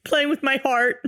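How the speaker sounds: laughing through mock heartbreak; laughing mock drama. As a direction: play it hammy, laughing.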